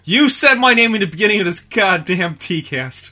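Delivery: loud mock outrage; indignant shout. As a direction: yell it in fake indignation.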